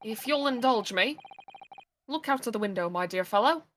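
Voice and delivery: lightly voiced low, quiet sleuth; measured gentleman detective, understated; calm detective voice.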